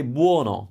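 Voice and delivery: buono with a closed O; Neapolitan buono. Shown as a demonstration. Teacher showing how Naples says buono, closed O. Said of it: "with the closed O".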